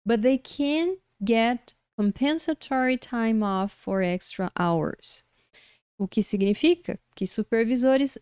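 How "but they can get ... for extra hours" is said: teacher reading the English example slowly. Shown as a demonstration. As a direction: read the sentence slowly and clearly for students. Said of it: "Olha só esse exemplo".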